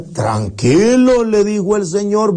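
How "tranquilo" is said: slow, calming word; reassuring. Acted. Shopkeeper calms the dejected young man, slow and soothing. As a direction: settle the boy down gently.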